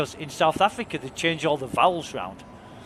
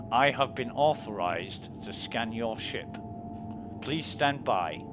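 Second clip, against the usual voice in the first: robotic scanner voice; 3 semitones lower, 4 dB quieter, slower than usual. Pretend. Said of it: "I'm playing security guard".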